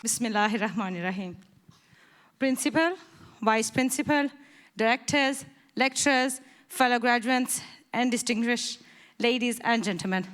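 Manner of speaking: nervous, shaky voice. Real, not acted. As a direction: voice trembling with nerves. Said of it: "Sorry for my shaky voice".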